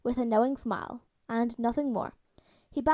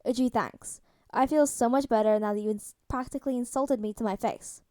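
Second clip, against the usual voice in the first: dry sarcasm; 3 dB louder than usual. Acted. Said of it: "Tony remarked, no underlying heat".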